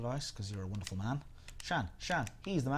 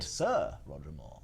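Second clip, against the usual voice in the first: much lower, slow suave voice; Roger Moore; 7 semitones lower, slower than usual. Retold or imitated. Streamer nails Roger Moore, low and slow. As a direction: purr it slowly like Bond. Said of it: "That's it".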